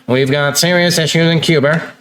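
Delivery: lightly imitated Boston accent, "Cuba" as "Cuber"; touch of a presidential New England accent, adding an R to "Cuba"; Kennedy. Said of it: "he'd be like".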